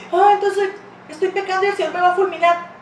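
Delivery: high, put-on worried objection; mock alarm. Preacher voices a listener fearing God's punishment, mock alarm. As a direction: voice a fretful sinner, lightly hammed up.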